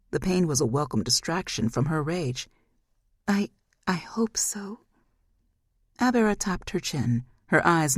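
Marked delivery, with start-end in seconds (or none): 3.3-4.8 faltering whisper. Acted. Daughter hesitates.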